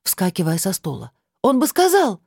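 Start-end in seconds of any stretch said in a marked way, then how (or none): 1.4-2.2 shout. A narrator's reading. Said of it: "закричала она в ответ".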